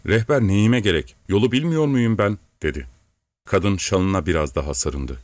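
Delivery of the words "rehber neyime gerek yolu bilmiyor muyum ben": "Rehber neyime gerek" with each syllable pressed, as if to tradesmen; syllables stressed. A narrator's reading. Master rebuffs wife as if talking to tradesmen, stressing syllables in "Rehber neyime gerek". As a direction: lightly punch the syllables of "Yolu bilmiyor muyum ben". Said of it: "satıcılarla konuşur gibi heceleri vurgulayarak".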